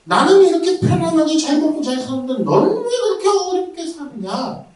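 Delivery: high, scornful jeer; mocking sneer. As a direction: look down on the struggling believer. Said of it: "라고 비웃는 거예요".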